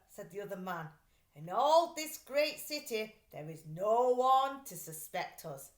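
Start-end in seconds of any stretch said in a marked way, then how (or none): 1.4-5.7 louder, confident thief; a touch of a cocky criminal; smug crook. Acted. Second thief speaks.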